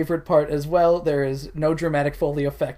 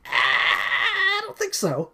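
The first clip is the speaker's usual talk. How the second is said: a prissy brush-off; mock samurai refusal. Samurai refusing to fight for his wife, mock prissy. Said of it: "the samurai's just like".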